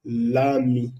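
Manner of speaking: l'ami linked as one word, la-mi; French pronunciation. Shown as a demonstration. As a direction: say l'ami joined together. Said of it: "Eso se dice". (l'ami pronunciado junto)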